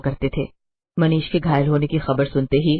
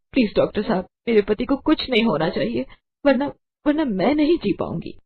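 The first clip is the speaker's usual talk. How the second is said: tearful pleading; 5 semitones higher than usual. Acted. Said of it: "ये कहकर अंकिता रोने लगी।".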